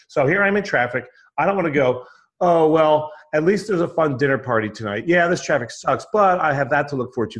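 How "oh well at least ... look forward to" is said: pathetically weak consolation. Retold or imitated. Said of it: "That is pathetically weak".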